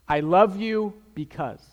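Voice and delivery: slow I love you because with weight on because; stress on because. Shown as a demonstration. Pastor showing husbands the added word, stress on because. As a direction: lean into because at the end. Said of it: "one word that you can add".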